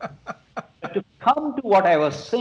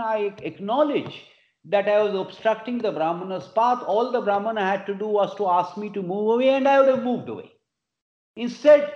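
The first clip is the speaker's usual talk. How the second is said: higher-pitched, insistent protest; indignant complaint; 5 semitones higher than usual. Retold or imitated. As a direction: plead a grievance, lightly acted. Dog pleads its case to king.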